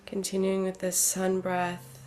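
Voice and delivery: unhurried, measured breath cues; calm meditation guidance; guided breathing. Real, not acted. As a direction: lead a slow breath in and out, leaving room after each cue.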